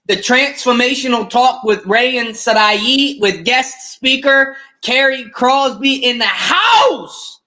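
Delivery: slow, drawn-out MC introduction; show announcer. Real, not acted. Host introducing the guest speaker, show announcer. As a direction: announce it grandly, stretching the final word.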